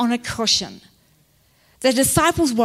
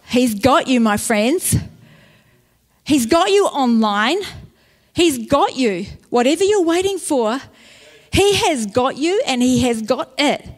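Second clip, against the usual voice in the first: rousing assurance. Real, not acted. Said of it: "preacher builds to rousing assurance".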